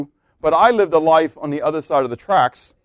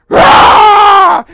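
a huge, high triumphant roar; angelic victory shout; 15 dB louder than usual. Acted. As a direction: shout like the host of heaven.

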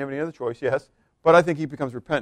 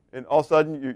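ordinary delivery

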